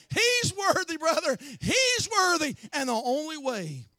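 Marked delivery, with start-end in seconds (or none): 0.1-2.5 joyful proclamation. Real, not acted. Rising proclamation.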